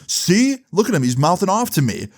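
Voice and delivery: high-pitched imitation of a tattletale; imitated complaint, starting high and coming down; mock tattling. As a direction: whine on him to mom, mockingly. Boyfriend tattling to mom, mocked.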